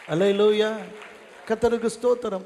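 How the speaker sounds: revival-meeting call of praise; praise shout. Real, not acted. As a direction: proclaim praise to the whole congregation.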